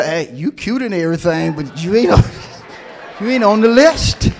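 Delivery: lightly voiced bouncer turning someone away; a hint of a stern doorman. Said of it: "I'm trying to make it comical".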